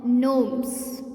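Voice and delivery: GNOMES said as "nomes", starting on N; silent G. Shown as a demonstration. Teacher repeating the word for kids, GNOMES with silent G. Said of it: "Because G is silent here".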